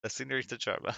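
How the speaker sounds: slow, clumsily read Spanish; butchered Spanish. Real, not acted. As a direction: stumble through Spanish with drawn-out words. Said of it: "Butchered the hell out of all of this".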